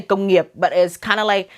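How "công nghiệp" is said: "công nghiệp" said in native Vietnamese, with its tones; Vietnamese word. Shown as a demonstration. Vlogger telling viewers the Vietnamese term, native Vietnamese pronunciation. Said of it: "in Vietnamese we say".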